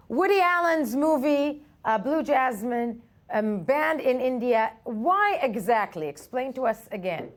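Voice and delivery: slow and carefully enunciated; over enunciating. Real, not acted. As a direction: spell out each word clearly for a bad phone line. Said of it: "I will speak slowly and try to enunciate every word".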